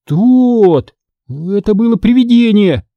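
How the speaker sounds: a touch of a shaky, frightened voice; lightly voiced scared boy insisting; trembling voice. A narrator's reading. Scared boy tells Mitchell about the ghost, mildly trembling. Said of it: "заявил он дрожащим голосом".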